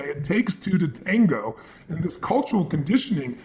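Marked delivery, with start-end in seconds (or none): 0.0-1.6 slow, deliberate. Shown as a demonstration. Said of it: "get people to do is to say".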